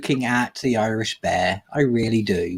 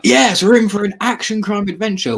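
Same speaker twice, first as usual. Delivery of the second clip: mock excited; 8 semitones higher than usual. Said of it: "It's kind of".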